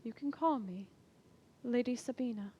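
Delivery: soft, hushed comforting voice; gentle reassurance. Acted. Lady Sabina comforting the captive girl, soft reassuring voice. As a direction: soothe the frightened girl softly.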